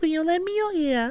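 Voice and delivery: high-pitched fantasy elf maiden voice. Copying a game character's line as best as possible: imitating an elf maiden voice. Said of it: "elf maiden voices, guys, gets me".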